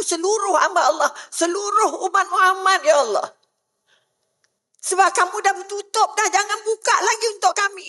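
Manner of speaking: urgent supplication to God, piling up each plea; pleading prayer. Acted. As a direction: plead earnestly as if praying aloud. Preacher acts out pleading prayer.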